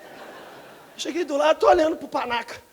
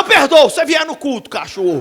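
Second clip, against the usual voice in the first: loud retort; 2 semitones higher, 10 dB louder than usual. Retold or imitated. Preacher's retort to driver.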